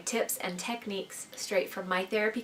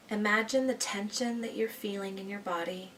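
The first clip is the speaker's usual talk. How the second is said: slow, soothing meditation voice with long pauses; guided meditation; 6 dB quieter than usual. Real, not acted. Therapist leading listeners through breathing out anxiety, guided meditation. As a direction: guide them gently through the breathing, leaving space after each phrase.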